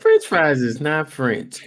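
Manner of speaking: slow, know-it-all correction; a know-it-all correcting a friend, slow and smug; mock know-it-all. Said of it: "They be like".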